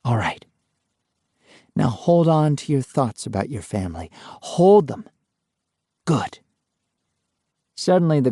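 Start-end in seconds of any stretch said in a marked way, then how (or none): 0.0-6.4 soothing. A narrator's reading. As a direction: settle him down gently. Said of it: "in a less frantic and more soothing voice".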